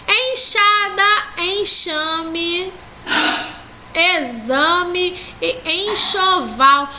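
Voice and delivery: traag voorgelezen woordrij; slow list reading. Shown as a demonstration. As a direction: read each word slowly. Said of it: "Sublinhe em cada item".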